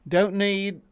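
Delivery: put-on slow, drawn-out New Zealand accent that slips toward Cockney; bad Kiwi accent. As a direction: read the officer's line in a shaky Kiwi accent. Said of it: "you gotta read that with a Kiwi accent".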